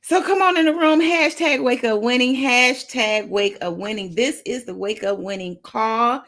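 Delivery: high, loud hype call; announcer-style show opener; hyped show intro. Real, not acted. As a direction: pump up the room for the call.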